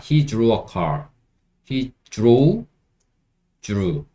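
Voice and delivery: drew said as "juru", the d softened toward j; American dr sound. Shown as a demonstration. Teacher showing American pronunciation, dr like j. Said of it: "요런 식으로 발음한다".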